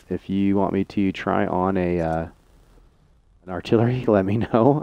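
can't keep a straight face, chuckling; stifled giggles while asking; laughing through words. Real, not acted. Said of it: "I can't even say it with a straight face".

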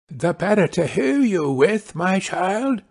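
lightly disguised wolf; wolf as grandmother. Acted. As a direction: reassure as a fake grandmother.

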